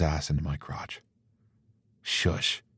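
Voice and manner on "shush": breathy hushing whisper; whispered shush. Acted. Hushing him in bed.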